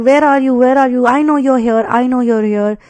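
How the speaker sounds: mock frantic searching. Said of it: "He started crying frantically".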